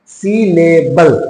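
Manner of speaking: "syllable" said very slowly, part by part; broken into syllables. Shown as a demonstration. Teacher introduces the term syllable to students, broken into syllables. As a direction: sound out "syllable" with gaps between the syllables. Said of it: "I am telling".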